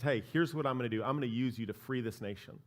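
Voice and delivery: low and quiet, a hint of a divine voice; God's voice. God calls Moses from the bush, hushed low voice. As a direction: softly voice God calling Moses.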